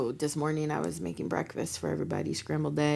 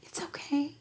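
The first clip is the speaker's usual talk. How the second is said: reassuring; 8 semitones higher, 4 dB quieter than usual. Retold or imitated. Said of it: "And you're like".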